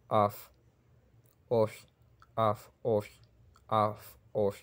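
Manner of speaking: af with hard f, of with softened f; hard-soft contrast. Shown as a demonstration. Teacher drilling the difference, hard af against soft of. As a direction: alternate plain af and palatalized of. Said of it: "es diferente".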